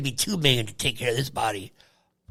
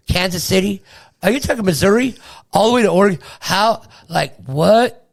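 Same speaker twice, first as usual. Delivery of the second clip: higher, louder, disbelieving; can't believe the distance; incredulous; 4 semitones higher, 6 dB louder than usual. Real, not acted. Incredulous at expedition.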